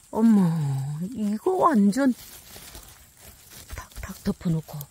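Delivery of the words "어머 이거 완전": shrieking jackpot winner. Real, not acted. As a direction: shriek like you hit the jackpot. Big mushroom find.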